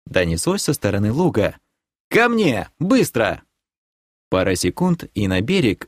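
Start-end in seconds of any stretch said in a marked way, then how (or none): 2.1-3.4 команда зверю. Acted. Герой командует волчонку.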